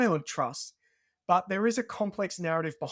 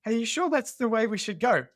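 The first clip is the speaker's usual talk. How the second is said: nervous question; 6 semitones higher, 4 dB louder than usual. Retold or imitated. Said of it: "I was starting to get a bit nervous".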